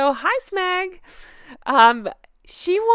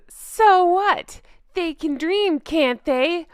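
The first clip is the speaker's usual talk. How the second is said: pirate; 5 semitones higher, slower than usual. Pretend. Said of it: "We're pirates now".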